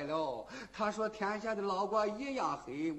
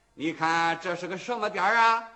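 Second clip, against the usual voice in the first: loud calling out; 7 dB louder than usual. Acted. Wu Song calls the old man.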